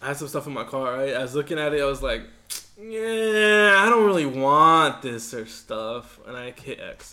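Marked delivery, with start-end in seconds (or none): 2.8-6.2 inner voice. Retold or imitated. Acting out his own thoughts.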